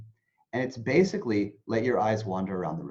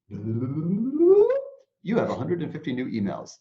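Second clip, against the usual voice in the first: slow, drawn-out announcement voice; mock computer voice announcing the emails; inbox announcement; 4 semitones higher, 4 dB louder, much slower than usual. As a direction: read it like a robotic notification. Acting out the inbox message.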